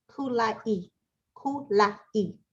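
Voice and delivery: Kulai said with an English L; japanese learner accent. Retold or imitated. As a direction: Kulai with a clear L instead of a tapped R.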